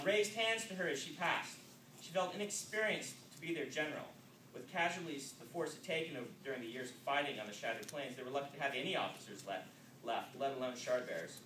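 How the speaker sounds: steady, measured reading voice; even-paced novel reading; story narration. A narrator's reading. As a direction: read it like telling the story to listeners. Narration resumes after aside.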